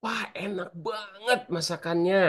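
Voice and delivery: hint of a child's delight; child praising food. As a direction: savour it like a kid enjoying a meal. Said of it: "Atau yang kedua".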